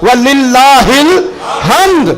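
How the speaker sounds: high, very slow ringing takbir; Ibrahim. Retold or imitated. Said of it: "حضرت سیدنا ابراہیم پھر بولے". (اونچی آواز میں کھینچ کر تکبیر)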